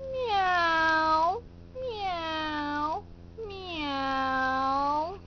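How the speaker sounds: sad kitten meows. Pretend. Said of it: "Can you help the kittens be sad?".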